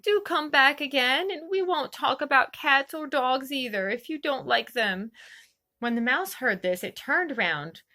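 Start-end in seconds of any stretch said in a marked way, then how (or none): 0.0-5.1 coaxing call. Acted. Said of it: "she called softly after it".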